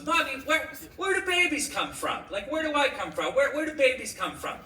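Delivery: high-pitched curious little daughter; little girl. Acted. Daughter asks mommy in the kitchen, little girl. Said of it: "she was a little girl".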